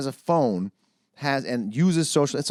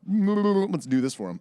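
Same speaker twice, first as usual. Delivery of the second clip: slow computer voice; 7 semitones higher, slower than usual. Pretend. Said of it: "computer just going".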